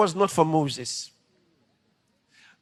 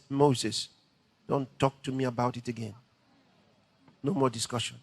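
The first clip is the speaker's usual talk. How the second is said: stern God; 6 semitones lower, 5 dB quieter than usual. Retold or imitated. God ends the discussion.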